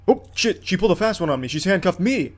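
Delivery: jumps up high in sudden alarm; startled outburst. Real, not acted. Gamer startled as the suspect cuffs him, yelping. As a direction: caught off guard, voice shooting up. Suspect turns tables in game.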